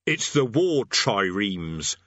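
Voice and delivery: slow, cheery soldier's voice; relishing the bad news, slowly; cheerful sergeant. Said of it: "said the sergeant cheerfully".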